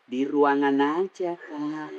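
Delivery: slow, softly trailing reply; the clerk tells her boss where she is in a slow, lilting voice; mendayu-dayu. Retold or imitated. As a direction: let the words drift, sweet and lingering. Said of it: "jangan kau membuat suaramu mendayu-dayu".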